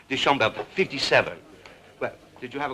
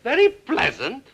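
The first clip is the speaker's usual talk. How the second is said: incredulous echo; 10 semitones higher than usual. Acted. Echoes the words in disbelief.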